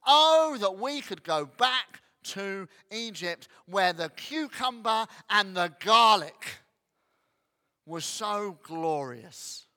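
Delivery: loud whiny mock complaint, slowing at the end; hammed-up grumbling of the wandering Israelites. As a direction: whine like a spoiled crowd. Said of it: "they say things like this".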